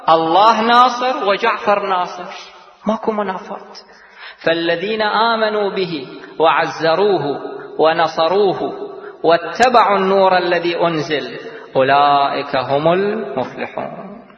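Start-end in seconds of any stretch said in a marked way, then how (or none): 4.4-14.3 Quranic recitation. Acted. Preacher chants the verse to his audience, melodic recitation. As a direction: intone the verse like tajwid recitation.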